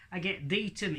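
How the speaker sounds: high northern lad puppet voice; Hadley. Acted. Puppet querying the ventriloquist, lightly voiced northern lad. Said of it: "he speaks with a northern accent".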